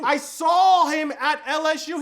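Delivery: high, slow, incredulous scoff; scoffing disbelief. Real, not acted. Scoffing to viewers about his college years.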